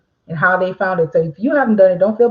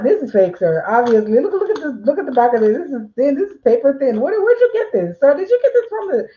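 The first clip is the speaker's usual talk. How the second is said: hammed-up scorn, jumping much higher; mock sarcastic call-out; 4 semitones higher than usual. Notary mocking a sarcastic clerk talking to a customer. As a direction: sneer at the paper-thin ID. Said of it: "don't just be like".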